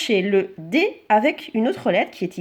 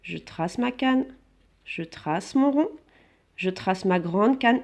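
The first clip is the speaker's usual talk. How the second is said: slow dictation; slower than usual. Shown as a demonstration. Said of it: "Je n'ai pas besoin d'arrêter mon geste".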